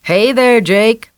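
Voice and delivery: deputy calling out to Jake. A narrator's reading. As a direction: call across the yard. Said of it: "Ray called out".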